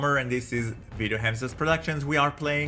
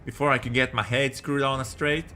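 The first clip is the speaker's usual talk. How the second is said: put-on Southern boy telling his story; Southern US storyteller; Southern accent. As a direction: narrate with a folksy Southern accent. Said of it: "the right accent for that".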